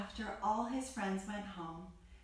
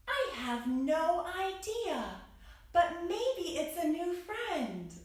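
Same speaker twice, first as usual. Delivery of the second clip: Cat's voice; 6 semitones higher than usual. Acted. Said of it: "And Cat the cat says".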